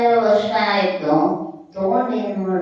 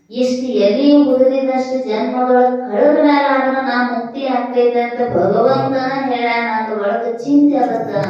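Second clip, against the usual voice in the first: higher, louder, eager retort; elated conviction; 5 semitones higher, 4 dB louder than usual. Acted. Devotee tells Narada God has promised him liberation, elated conviction. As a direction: answer with carefree devotion, voice lifted.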